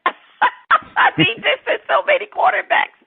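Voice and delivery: high-pitched, talking through laughter; helpless amusement, voice lifted high; laughing. Real, not acted. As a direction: let real laughter carry the words up high. Laughing at the quarterback count.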